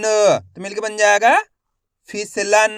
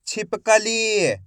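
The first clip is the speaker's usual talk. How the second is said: slow blended demo; much slower than usual. Shown as a demonstration. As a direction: draw the word out, syllable by syllable joined. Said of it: "शिक्षक शब्द जोड़कर पढ़ाता है". (धीरे-धीरे खींचकर पढ़ना)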